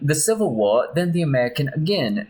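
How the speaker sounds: put-on mild Spanish-accented boast; gentle put-on Spanish accent. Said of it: "my Spanish accent".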